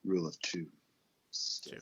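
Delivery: low, soft, half-whispered echo of the phrase; spooky echo. Pretend. Cohost echoes the Sith topic in a mock spooky murmur. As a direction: murmur it like a dark secret.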